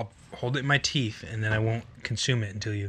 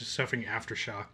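recovering from a burning mouth; mouth burning from spicy food. Real, not acted. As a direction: still feeling the spicy burn. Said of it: "I'm still".

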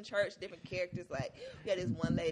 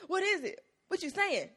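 imitating confused caller; 12 semitones higher, 3 dB louder than usual. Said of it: "She was like".

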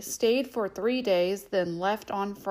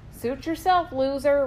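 mocking sneer, pitched up; bully taunts the boy who won't cheat; cackling bully; 4 semitones higher, 4 dB louder than usual. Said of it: "Roger cackled".

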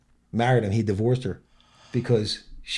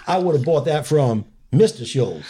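higher punchline delivery, near laughing; Mitch Hedberg; 4 semitones higher, 4 dB louder than usual. Retold or imitated. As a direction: lightly imitate a one-liner comic. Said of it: "The way you're delivering that is exactly".

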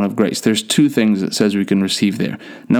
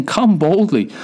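raised, ringing call to come boldly; God calling boldly; 7 semitones higher, slower than usual. Shown as a demonstration. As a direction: call out like God inviting his child. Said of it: "So he's saying".

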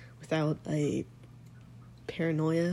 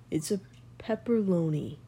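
dad joke punchline. Real, not acted. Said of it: "I'm gonna tell you a dad joke".

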